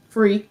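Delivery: "free" set apart with firm emphasis; stress on free. Real, not acted. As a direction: lean firmly on the word "free". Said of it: "emphasis on free".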